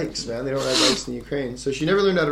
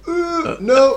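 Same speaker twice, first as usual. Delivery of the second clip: retold dismay; 8 dB louder than usual. Finger won't pop back in.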